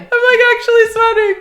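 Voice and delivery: real flustered embarrassment. Real, not acted. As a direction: blurt it out, caught blushing. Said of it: "Did you just see me stutter".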